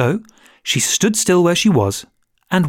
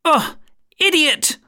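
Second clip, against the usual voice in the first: high scornful snap; impatient queen; 13 semitones higher, slower than usual. Acted. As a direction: dismiss him with contempt. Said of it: "tossing her head impatiently".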